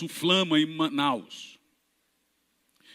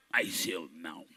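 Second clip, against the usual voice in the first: much lower, much softer refusal; low muttered refusal; 14 semitones lower, 12 dB quieter, slower than usual. Retold or imitated. Wheelchair man refusing, low mutter. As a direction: grumble it under breath.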